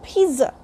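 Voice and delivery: pizza said carefully as PEET-suh; correct pronunciation. Shown as a demonstration. Teacher correcting pizza for learners, PEET-suh. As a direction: put a ts inside pizza. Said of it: "It is".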